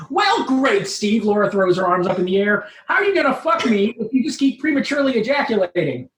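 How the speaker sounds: a hint of an annoyed young woman; exasperated Laura.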